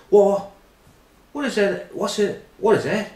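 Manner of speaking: high, squeaky put-on voice; shrill mock falsetto of a confused diner; mock high squeak. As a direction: squeak it out like a baffled kid. Neil voiced in retold anecdote.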